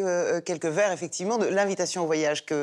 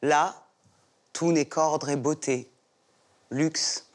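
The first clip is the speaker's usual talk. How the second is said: poem recitation. Acted. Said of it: "qu'elle a très envie de nous déclamer un vers".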